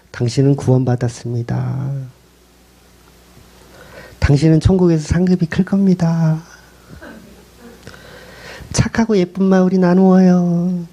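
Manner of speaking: a lightly sweetened, soothing fake blessing; honeyed false preacher. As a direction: sound kind while deceiving. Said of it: "독사의 말이라는 거예요". (거짓으로 상냥한 목소리)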